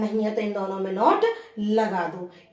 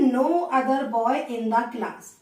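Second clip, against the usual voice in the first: very slow, each word apart; slow dictation; much slower than usual. Shown as a demonstration. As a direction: spell the phrase out for the class. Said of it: "teacher dictates phrase". (धीरे-धीरे शब्द-शब्द बोलना)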